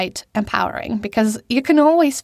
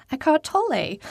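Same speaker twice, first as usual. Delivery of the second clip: name in native German pronunciation; German accent; 6 semitones higher, 3 dB quieter than usual. Shown as a demonstration. Speaker who knows German pronouncing the author's name, German accent. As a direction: say Eckhart Tolle with a German accent. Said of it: "don't know how to pronounce his name".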